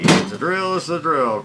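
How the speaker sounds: ad jingle voice. Retold or imitated. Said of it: "Old Navy".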